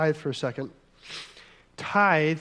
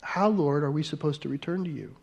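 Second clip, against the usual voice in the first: curious questioning tone, trailing softer and faster; inquisitive; 4 dB quieter than usual. Shown as a demonstration. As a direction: ask it like you truly want to know. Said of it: "say it like an inquisitive".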